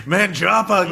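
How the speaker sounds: high, slow drawn-out Manjapa; hammed-up character cry; mock character voice. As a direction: stretch out Manjapa in a put-on high voice. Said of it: "I probably would have been like".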